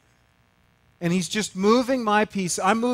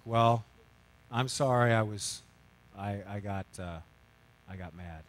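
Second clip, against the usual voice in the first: fading, ever softer confession; sheepish apology; 9 semitones lower, 7 dB quieter than usual. Retold or imitated. Husband apologizing to his wife, fading to a hush. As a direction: trail off ashamed until almost nothing.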